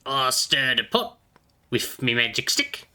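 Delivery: slow, odd goblin voice; slow put-on goblin drawl; goblin shaman. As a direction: explain your magic stick like a goblin. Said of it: "official shaman business".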